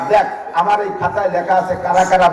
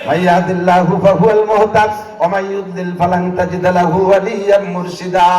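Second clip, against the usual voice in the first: Quran recitation. Acted. Preacher quoting the verse to the gathering, chanted.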